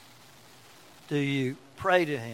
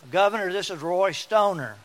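pompous caller; 4 semitones higher, 6 dB louder than usual. Retold or imitated. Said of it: "and he says".

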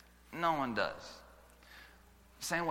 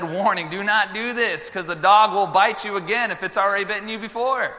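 emphatic warning; 8 semitones higher, 6 dB louder than usual. Acted. Preacher acts out warning.

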